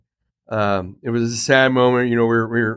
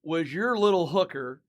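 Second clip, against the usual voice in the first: amused teasing; 9 semitones higher, slower than usual. Real, not acted. Teasing friend about dog.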